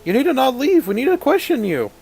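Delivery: high, loud guard yelling halt; guard shouting. Acted. GM as guard shouting at fleeing players. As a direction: bark the order like a city guard.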